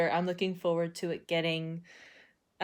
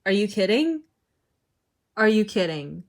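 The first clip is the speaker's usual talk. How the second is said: loud disbelieving question; genuinely outraged disbelief; exasperated "are you kidding"; incredulous; 2 semitones higher, 7 dB louder than usual. Real, not acted. Outraged at book character.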